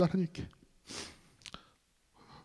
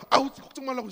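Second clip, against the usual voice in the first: high, irritated imitation; mock-irritated divine voice; slightly annoyed; 6 semitones higher, 4 dB quieter than usual. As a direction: brush off worries with mild annoyance. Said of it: "약간 짜증나는 목소리였어요".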